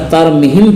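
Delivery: तरमीहिम with a short "mi"; common wrong reading. Shown as a demonstration. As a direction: hurry through the middle vowel of तरमीहिम. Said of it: "मीम के बाद वाली या". (तरमीहिम में मी छोटा, ग़लत)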